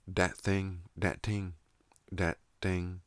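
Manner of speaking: "dat" with a hard d in place of th; th turned into d. Shown as a demonstration. Vlogger showing how th turns into duh, demonstrated d sound. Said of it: "dental fricatives th- were turned into duh".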